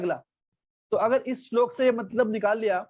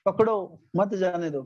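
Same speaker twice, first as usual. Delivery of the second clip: pakdo set apart, slower mat jaane do; pause after pakdo; slower than usual. Acted. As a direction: slowly, break after pakdo. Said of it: "इस चोर को पकड़ लो".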